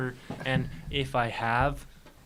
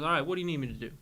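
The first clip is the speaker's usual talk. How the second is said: put-on Texas accent; 2 semitones higher, 3 dB louder, much faster than usual. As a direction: say it like a Texan comedian. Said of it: "this is all in a Texas accent".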